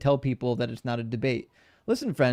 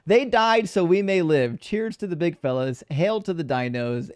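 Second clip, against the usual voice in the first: slow, hammed-up Australian toast; attempted Australian accent; 3 semitones higher than usual. Streamer reading a tribute to the dinos, attempted Australian accent. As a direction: start big, stretch it out in amateur Australian. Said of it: "Read this in an Australian accent".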